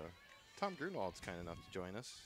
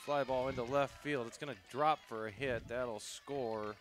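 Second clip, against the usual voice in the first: live play-by-play; 3 semitones higher, 4 dB louder than usual. Real, not acted. Announcer calls a run-scoring hit, live play-by-play. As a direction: lively call that settles as the play ends.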